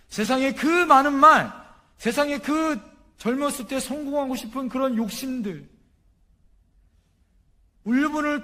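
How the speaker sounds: high, insistent sermon climax; impassioned preaching. Real, not acted. Preacher telling the congregation of words held back, impassioned.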